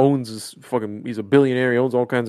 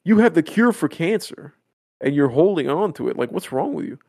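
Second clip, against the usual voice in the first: outraged plea; 4 semitones higher than usual. Retold or imitated. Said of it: "He goes".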